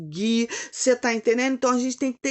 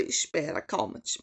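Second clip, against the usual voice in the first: hushed; 7 semitones lower, 9 dB quieter than usual. Acted. God's soothing words quoted.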